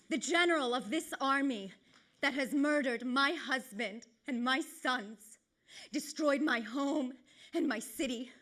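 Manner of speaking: dramatic tragic monologue, measured and grave; Hecuba. Acted. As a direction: accuse the victors with restrained force. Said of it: "Hecuba in Trojan War says".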